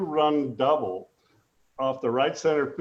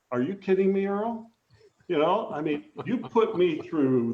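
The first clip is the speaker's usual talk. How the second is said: retold disbelief; 4 semitones higher than usual. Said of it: "And I went".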